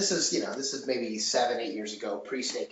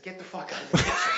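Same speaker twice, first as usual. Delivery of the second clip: raised voice, mild retold shout; retold angry order; 4 semitones higher, 4 dB louder than usual. Chef retelling how he ejected a server, mock angry shout. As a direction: throw him out, acting out the anger.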